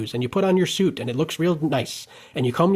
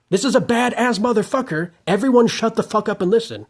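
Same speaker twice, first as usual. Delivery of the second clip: higher, emphatic mock Rachmaninoff; 6 semitones higher than usual. Rachmaninoff telling everyone to listen to a jazz pianist, proclaiming emphatically. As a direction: proclaim it like a composer. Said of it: "is what Rachmaninoff said".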